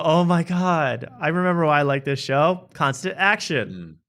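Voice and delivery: slow, pleased mock delight; mock satisfied viewer. Viewer remembers why he likes the show, slow mock delight. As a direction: savor it sarcastically. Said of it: "you go".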